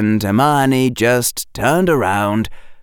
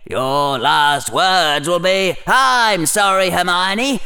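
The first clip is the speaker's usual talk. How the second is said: higher, mocking inner voice; snarky inner critic; 8 semitones higher than usual. A narrator's reading. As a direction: sneer at him like a sarcastic conscience. Harry's internal critic voiced.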